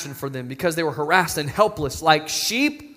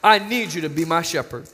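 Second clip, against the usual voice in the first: soft repeat. Shown as a demonstration. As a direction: say it again softly, like a confession. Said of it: "we need to say".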